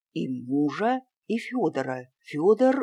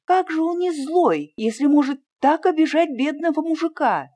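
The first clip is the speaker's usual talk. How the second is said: much higher and louder protest; indignant outburst; 11 semitones higher, 6 dB louder than usual. A narrator's reading. Lena protests to the aunt, high and indignant. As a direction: burst out in disbelief.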